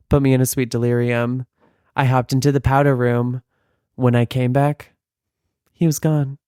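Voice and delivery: mock-reverent reading; reading like scripture. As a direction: read the lyrics as if from the pulpit. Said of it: "I'm gonna read scripture to you".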